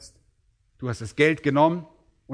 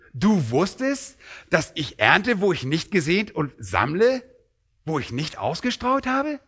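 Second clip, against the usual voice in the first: incredulous master; 3 semitones higher than usual. Shown as a demonstration. Master questioning the servant's excuse, incredulous. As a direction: drag it out, mocking his excuse. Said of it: "ich versuche das mal so vorzulesen".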